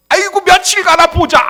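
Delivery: loud, high-pitched mocking outburst; exasperated, derisive yelp; scornful parent. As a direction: jeer like a parent who doubts it will last. Mocking parent's sceptical reaction.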